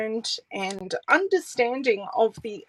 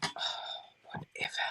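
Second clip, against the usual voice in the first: whispering; 14 dB quieter, faster than usual. Real, not acted. Aside to self.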